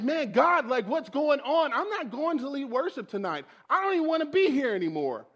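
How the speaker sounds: exasperated refusal, pushed out; upset protest. Retold or imitated. Worship leader refusing to lead tonight, upset. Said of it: "I'm sitting over there and I'm crying".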